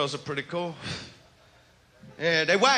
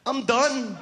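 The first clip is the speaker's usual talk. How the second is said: usual speaking voice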